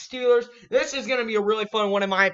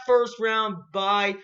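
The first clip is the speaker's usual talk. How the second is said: voice crack; much slower than usual. Real, not acted. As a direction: voice cracks mid-phrase, slowed down. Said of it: "Peep the voice crack I just had".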